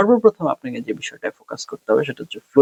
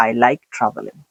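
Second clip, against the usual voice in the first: "I like traveling" said in a flat, even tone; much slower than usual. Shown as a demonstration. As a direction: demonstrate a monotone on "I like traveling". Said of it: "instead of flat tone".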